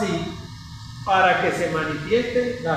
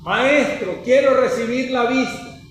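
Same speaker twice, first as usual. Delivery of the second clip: mild retold cry; 6 semitones higher, 3 dB louder than usual. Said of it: "Y el hombre le gritó".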